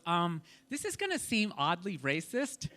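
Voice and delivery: put-on hushed girlfriend. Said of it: "she looks across the table from me and she goes".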